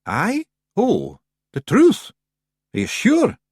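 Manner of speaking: high, loud, slow Scots pixie voice; ventured nervously, hoping to dodge. Acted. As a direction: Rob nervously dodging the truth. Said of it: "Rob ventured rather nervously".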